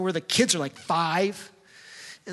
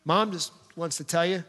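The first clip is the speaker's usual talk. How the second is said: sincere apology; 3 semitones lower than usual. Retold or imitated. Parent apologizing to child.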